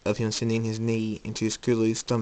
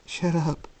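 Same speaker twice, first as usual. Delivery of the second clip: higher, upset but not shouted; tense retort; 7 semitones higher than usual. Acted. Jacob to the voice in his head, tensely upset. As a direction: push back without yelling.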